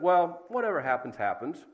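offhand shrug of a reply, rising then dropping away; careless. Acted. Preacher voicing the careless response people give, careless. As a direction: toss it off as if it doesn't matter. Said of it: "We've heard the careless response".

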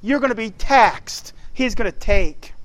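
lightly voiced prophet warning the people; a touch of voicing Samuel. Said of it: "But he said".

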